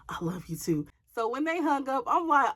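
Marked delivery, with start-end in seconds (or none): 0.1-0.9 soft secret whisper. Retold or imitated. Ex whispering to girlfriend on the phone, whispered. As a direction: hush it so nobody hears. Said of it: "he try to whisper and say".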